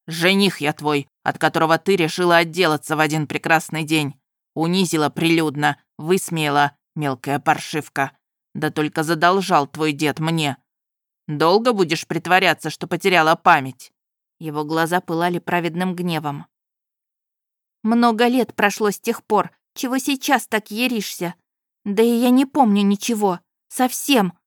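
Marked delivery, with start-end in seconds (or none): 0.1-13.9 a wronged fiancé accuses her; angry young groom. Acted. 17.8-24.3 higher, louder desperate cry; frightened shouting. Acted. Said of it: "Кричала от страха, от безысходности".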